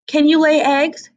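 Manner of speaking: high, sharp clucking hen. Acted. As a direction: peck out the question like a bossy hen. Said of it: "she asked".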